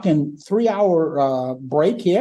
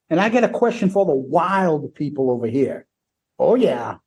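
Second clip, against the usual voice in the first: imitating Paul; 3 semitones higher than usual. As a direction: ham up the frontman teasing the crowd. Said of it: "this is what Paul says".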